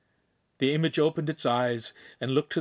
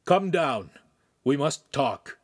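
louder, raised call; 4 semitones higher, 4 dB louder, slower than usual. Acted. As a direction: summon them firmly from downstairs. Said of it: "the master's voice shouted up".

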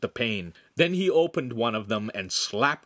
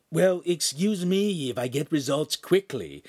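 raised, affronted imp voice; indignant retort; 6 semitones higher than usual. A narrator's reading. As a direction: answer back as if insulted. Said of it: "Pan retorted indignantly".

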